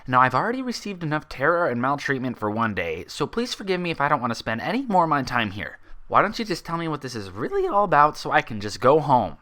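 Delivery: a sharp, disbelieving unicorn insisting she's sane; Twilight's voice. Acted.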